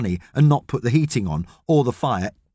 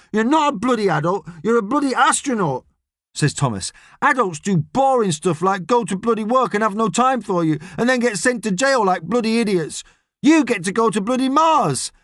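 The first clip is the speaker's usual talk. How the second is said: put-on boy's voice; 9 semitones higher than usual. A narrator's reading. Boy James mocking adults.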